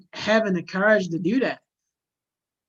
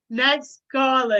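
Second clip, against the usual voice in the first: mock radio host; 2 semitones higher, 3 dB louder, slower than usual. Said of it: "I'm hanging up this line".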